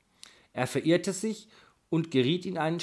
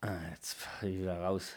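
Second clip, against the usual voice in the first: real whisper, much softer, off to the side; whispered aside; 8 semitones lower, 11 dB quieter than usual. Real, not acted. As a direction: murmur it privately under the breath. Reader's aside while recording.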